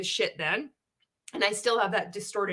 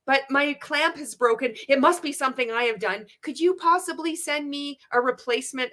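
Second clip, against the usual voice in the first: overly polite member; 5 semitones higher than usual. Retold or imitated. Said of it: "this is how we would talk".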